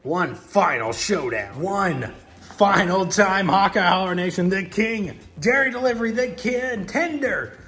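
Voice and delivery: hyped live race call; excited race-day commentator; race commentary. Acted. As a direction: call the race like a track announcer. Toy truck race play-by-play.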